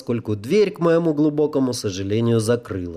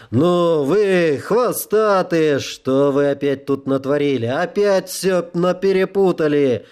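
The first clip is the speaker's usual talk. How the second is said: scolding; 4 semitones higher than usual. Acted. Uncle scolds devils.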